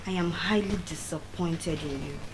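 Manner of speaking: soft, low, heavy disappointment; disappointed scolding. Retold or imitated. Teacher scolding the student, soft and low. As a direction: scold her quietly, let it sink.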